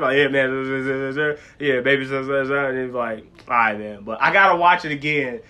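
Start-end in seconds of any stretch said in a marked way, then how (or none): 0.2-4.0 mumbled, suddenly serious imitation; suddenly serious rapper. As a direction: imitate a rapper turning serious, words slurred together. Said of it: "get serious real quick sometimes".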